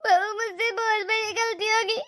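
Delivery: crying apology. Acted. Mother-in-law weeps asking forgiveness.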